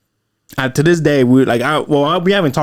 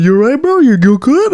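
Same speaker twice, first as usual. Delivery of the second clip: high, concerned check-in; worried cousin, imitated; 12 semitones higher, 5 dB louder than usual. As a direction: voice the cousin leaning over him. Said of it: "My cousin was like".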